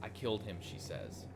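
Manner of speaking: measured dramatic read-aloud; storyteller reading game text; story narration. A narrator's reading. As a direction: narrate the scene with some drama. Reads the game's story aloud.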